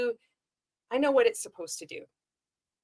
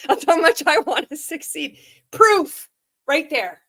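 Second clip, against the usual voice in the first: mocking the guru; 4 semitones higher, 6 dB louder than usual. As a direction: ham up a smug coach preaching obedience. Mocking Randy's self-important pitch.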